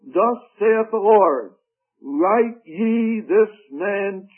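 slow, weighty Bible reading; measured pulpit reading, phrase by phrase; scripture reading. Acted. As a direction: read the verse out slowly and deliberately. Reads scripture aloud to congregation.

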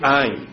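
I as a lone falling beat; emphatic I. Shown as a demonstration. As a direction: set "I" apart firmly. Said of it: "here's an emphatic".

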